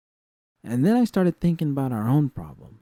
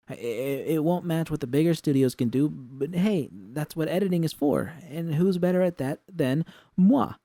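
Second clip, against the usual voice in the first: excited; 5 semitones higher than usual. Acted. Excited pitch of new business.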